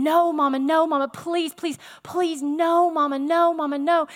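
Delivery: mildly acted frantic begging; hysterical pleading. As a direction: plead insistently, like a scared little kid. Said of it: "she is hysterical".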